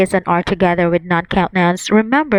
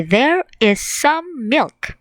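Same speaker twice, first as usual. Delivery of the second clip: slow model sentence; 5 semitones higher, slower than usual. Shown as a demonstration. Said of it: "You can say".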